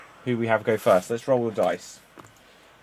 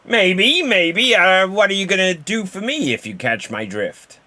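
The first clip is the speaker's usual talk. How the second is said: suggestive; 6 semitones higher, 4 dB louder than usual. Acted. Improv scene, suggestive offer.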